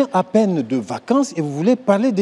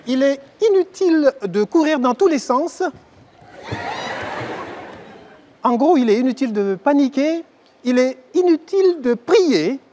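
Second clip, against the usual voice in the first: flight attendant announcement; 3 semitones higher than usual. Acted. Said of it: "C'est moi, l'hôtesse".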